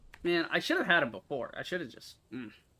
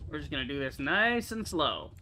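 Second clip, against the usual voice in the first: careful unhurried voice. Real, not acted. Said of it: "is what I say".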